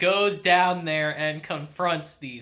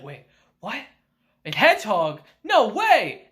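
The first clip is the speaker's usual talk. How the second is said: mock shock building to an excited no way; surprised disbelief; 3 dB louder than usual. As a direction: gasp it out, then get louder. Uncle hears about hedgehog.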